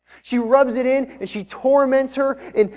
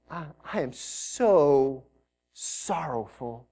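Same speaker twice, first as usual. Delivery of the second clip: sorrowful lament; 7 semitones lower, 7 dB quieter, much slower than usual. Acted. Hannah voiced in grief.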